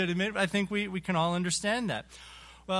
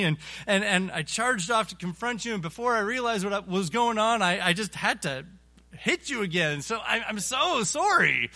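flustered apology; 3 semitones higher, 3 dB louder than usual. Acted. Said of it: "and he replies".

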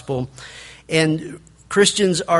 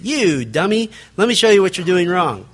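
mock rude rebuke; 3 semitones higher than usual. Preacher showing the hidden meaning, condescending. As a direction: reveal the insult underneath. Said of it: "When they're really saying".

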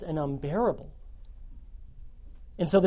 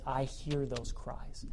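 God whispering; 3 semitones lower, 10 dB quieter, slower than usual. Acted. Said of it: "And God says".

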